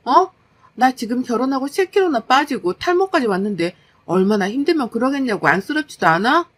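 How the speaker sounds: mildly heated wife's complaint; fed-up wife. Acted. Worn-out wife complaining to her husband about housework, fed up. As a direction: press the grievance, a touch indignant.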